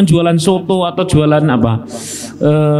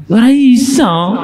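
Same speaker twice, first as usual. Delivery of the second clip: louder, higher, slow, laughing; laughing retort; 9 semitones higher, 4 dB louder, slower than usual. Real, not acted. (sambil tertawa keras)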